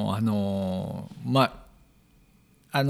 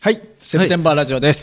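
energetic show opener; 4 semitones higher, 5 dB louder, much faster than usual. Acted.

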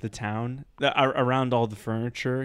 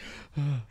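startled gasp; 2 semitones higher, 4 dB quieter than usual. Retold or imitated. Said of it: "scared the hell out of me".

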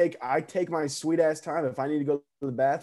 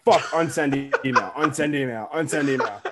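laughing mock panic. Panicked retold self.

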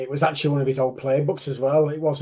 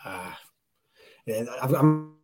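glitching audio; much slower than usual. Real, not acted. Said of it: "you're cutting out".

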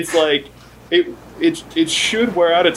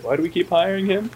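Marge voice; 4 semitones higher, 3 dB quieter than usual. Retold or imitated. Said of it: "Marge points out".

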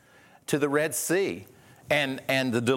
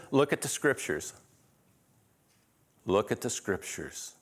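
lower, measured repeat after a pause; calm instruction; 3 semitones lower, 3 dB quieter than usual. Acted. Preacher voicing what Jesus says instead, calm instruction. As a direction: point them gently back, dropping softer on the repeat.

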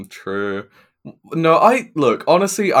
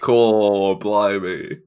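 showing off an Australian accent, slightly lower; 5 semitones lower, much slower than usual. Shown as a demonstration. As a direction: put on a drawn-out Australian accent. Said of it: "your Australian accent is dead on".

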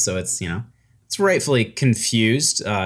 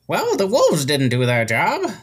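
lightly voiced old wizard; 4 semitones higher than usual. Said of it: "looks around and says".

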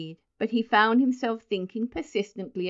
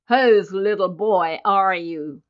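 slow, louder, indulgent officer voice; kindly question; 6 dB louder, slower than usual. A narrator's reading. Colonel to Benjamin, kindly and slowly. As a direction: ask it slowly, as to a small child. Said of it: "he demanded kindly".

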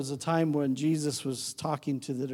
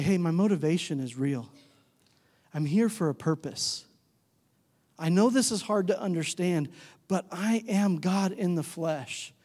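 earnest appeal. Acted. Jesus seeking disciples' attention, earnest and unhurried. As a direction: speak measuredly, trying to be believed. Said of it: "I wonder if Jesus had a tone".

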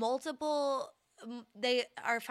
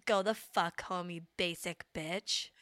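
mock rant; 3 dB louder, slower than usual. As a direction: playfully tell the crowd off, starting loud. Mock rant at festival-goers.

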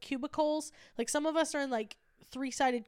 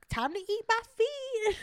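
laughing tease; 9 semitones higher than usual. Retold or imitated. Teasing coworker over bagels.

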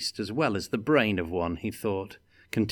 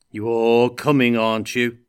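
louder, pressing dwarf; menacing; 2 semitones higher, 7 dB louder than usual. A narrator's reading. Gotrek pressing Felix to come, menacing. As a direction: lean on him with a threat. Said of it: "asked Gotrek menacingly".

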